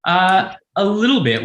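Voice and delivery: high, laughing reply; sheepish laugh while admitting it. Real, not acted. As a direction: answer through a real laugh. Laughs at the soundtrack question.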